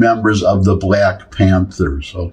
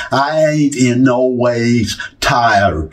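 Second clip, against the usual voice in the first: slow, stretched mock Southern drawl; Hillary Clinton; 2 semitones higher, much slower than usual. Commentator mimicking a politician's switch for black audiences, mock Southern accent. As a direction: attempt a put-on Southern accent. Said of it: "she switches into a Southern accent".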